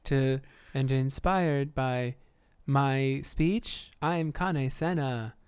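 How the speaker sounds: slow, booming rally speech; motivational speech voice. Pretend. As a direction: rouse the troops, slow and loud. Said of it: "This is my most motivational voice I could possibly do".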